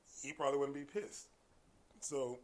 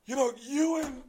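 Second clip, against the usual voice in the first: high, very loud name call; commanding high-pitched shout; imitating her yelling; 12 semitones higher, 11 dB louder than usual. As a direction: holler the name across the room. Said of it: "it's him she's yelling at".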